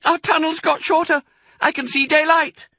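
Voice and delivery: very high, loud cub's voice; high-pitched, urgent cry; small fox. A narrator's reading. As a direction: pipe up in alarm like a little child. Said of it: "said one of the small foxes".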